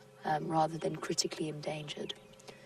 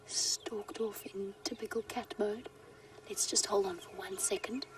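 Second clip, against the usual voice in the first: hushed whisper so the cat stays calm; wildlife watching whisper; 6 dB quieter than usual. Real, not acted. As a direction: whisper softly, don't scare the animal. Cat hunting, guide not disturbing it.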